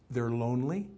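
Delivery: breathy whisper of "They're lonely"; hushed, tender aside. Acted. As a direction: drop to a whisper to make them lean in. Preacher describing children, hushed.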